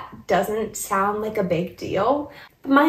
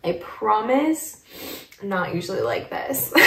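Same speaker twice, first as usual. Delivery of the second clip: choked-up reassurance; 6 dB quieter than usual. Real, not acted. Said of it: "with how emotional I am".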